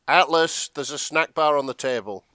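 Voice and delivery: mock-earnest announcement; naive hero calling out. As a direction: pipe up with an innocent discovery. Voices Jack calling to Atlas.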